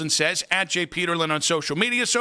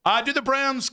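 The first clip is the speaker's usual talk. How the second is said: put-on slipped Southern accent; 5 semitones higher than usual. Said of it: "I started doing the accent thing without trying".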